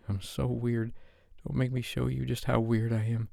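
a shy woman begging, tripping over her words; nervous Sophie. Acted. Flustered Sophie asking Dave to turn off the lights.

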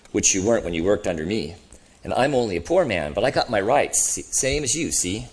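lightly voiced grumbling ghost; a touch of self-righteous grievance in the voice; indignant ghost. Ghost defending his record to the other, mildly indignant.

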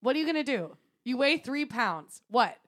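mock yelling. Host recreates cat owner scolding chicken thief, mock yelling. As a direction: tell off a thieving cat at full voice. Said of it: "TikTok of somebody yelling at their cat".

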